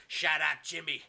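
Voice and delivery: lightly voiced villain, slow and deliberate; a touch of menace, stretching out the words; mock tough-guy threat; Kevin Sullivan. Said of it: "Kevin Sullivan goes".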